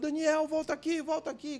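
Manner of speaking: put-on high-pitched calling after a runaway boy; retold yell from the school doorman. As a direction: shout his name after the running kid. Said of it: "E ele ficou gritando".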